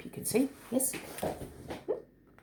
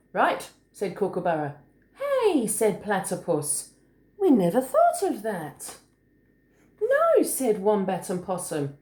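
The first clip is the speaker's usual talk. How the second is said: put-on story reading to children; 2 semitones higher than usual. A narrator's reading. Adult reading a picture book to a small child, lilting. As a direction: read it like a picture book, singsong on the hops.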